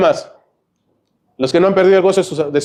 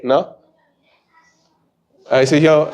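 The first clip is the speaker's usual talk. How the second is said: usual speaking voice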